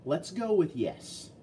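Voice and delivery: a playful slow verdict; drawn-out yes. Acted. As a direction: stretch it out like a mock ruling. Unsure guess about the part.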